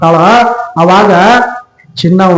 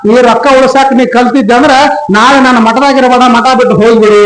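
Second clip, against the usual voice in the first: mildly stern guru, pitch raised; stern order; 4 semitones higher than usual. Acted. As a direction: send the disciple away with raised pitch. (ಸ್ವಲ್ಪ ಕಟ್ಟುನಿಟ್ಟಾದ ಗುರುವಿನ ಆಜ್ಞೆ)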